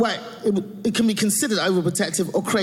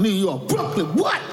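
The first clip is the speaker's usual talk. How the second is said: punchy, showy hometown shout-out; mock Brooklyn bravado. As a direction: rep Brooklyn with playful swagger. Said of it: "I had to say it like that".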